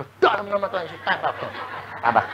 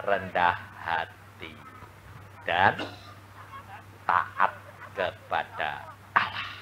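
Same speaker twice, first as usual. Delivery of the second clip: soft answer; 12 semitones lower, 14 dB quieter, slower than usual. Shown as a demonstration. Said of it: "engkau harus belajar apa?".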